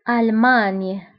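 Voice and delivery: ألمانيا as French al-magne, no final "a"; French name for ألمانيا, ending on a "ny" sound; French pronunciation. Shown as a demonstration. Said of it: "بالفرنسية أيضًا".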